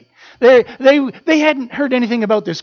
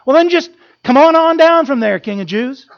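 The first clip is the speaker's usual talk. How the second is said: high, louder jeering dare; mocking crowd; 5 semitones higher, 6 dB louder than usual. Preacher voicing the crowd mocking Jesus, loud jeer. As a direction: taunt him to come down. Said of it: "they begin to say to them".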